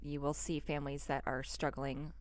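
soft and gentle; gentle grief counselor. Pretend. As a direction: reassure a newcomer softly. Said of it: "What would you say to somebody".

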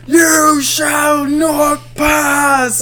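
high, slow, stretched-out booming proclamation; famous wizard line. Retold or imitated. Wizard blocking the demon on the bridge, booming. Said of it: "he does the famous thing".

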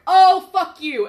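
loud, high, slow monster snarl; dinosaur voice. Retold or imitated. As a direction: roar it as the dinosaur. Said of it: "And the dinosaur's like".

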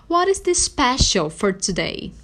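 slow, carefully spoken English example; model phrase. Shown as a demonstration. Teacher showing how to ask for the special, slow and clear. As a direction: say it slowly for learners to follow. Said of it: "você pode dizer assim".

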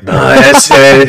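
slow, drawled cholo voice; imitating a chicano accent, slowed right down. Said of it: "Why'd you say it like a cholo".

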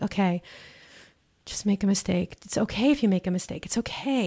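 soft, reassuring inner voice; calm self-talk. Retold or imitated. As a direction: talk yourself down gently. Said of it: "I'm like".

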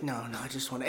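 low, soft mock reassurance; hushed, wheedling denial; soothing pimp. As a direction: imitate a man sweet-talking. Pimp coaxing, retold.

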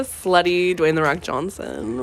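slow, drawn-out "slutty Dwayne The Rock Johnson"; drawn-out mouthful. Real, not acted. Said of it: "kind of a mouthful when you say it like that".

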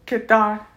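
"Qatar" said as kit-ARR; careful "Qatar", short first syllable, open second; demonstrated pronunciation. Shown as a demonstration. Learner showing the word for train, careful pronunciation. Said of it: "slowly go over the pronunciation".

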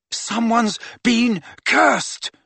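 high, slow, drawn-out call; bellowed. A narrator's reading. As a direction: project each word over raging wind. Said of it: "bellowed Harry".

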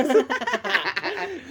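high breathy giggle burst; laughing too hard to speak; stifled giggles. Real, not acted. Laughing fit mid-story.

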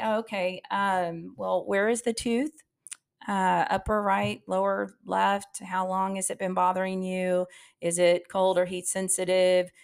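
flat, bored receptionist asking questions; just going through the motions, no interest; a dull, robotic front-desk voice; monotone. Shown as a demonstration. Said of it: "we are very monotone".

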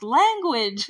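a dad snapping "Language!" at his daughter; sharp reprimand. Retold or imitated. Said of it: "her dad's like".

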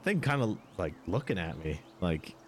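lightly voiced country barkeep, amazed; a hint of a Southern innkeeper gawking; Southern tavern keeper. Tavern keeper eyes Hydra head.

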